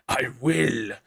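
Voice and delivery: a hint of a sultry purr; lightly hammed-up seductive reply; mock sexy. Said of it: "she said sexily".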